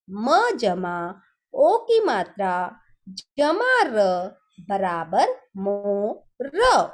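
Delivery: very slow, each part म, ओ की मात्रा, र spoken apart; slow spelling out. Shown as a demonstration. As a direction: spell it out slowly for young pupils. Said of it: "ओ की मात्रा को हम कैसे पढ़े".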